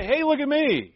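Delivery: high, loud "look at me" call; mock show-off. Believer showing off to strangers, mock attention-seeking call. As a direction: show off to everyone, hammed up. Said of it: "run out and say".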